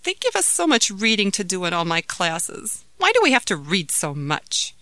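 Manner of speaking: mild grumble of a schoolchild; complaining. Acted. Daughter grumbles to mother about reading homework, complaining. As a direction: lightly complain to mom. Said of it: "complained Jamila".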